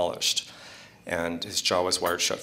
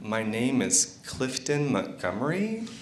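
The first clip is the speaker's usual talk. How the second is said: laughing quote; 5 semitones higher, slower than usual. Retold or imitated. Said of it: "he said".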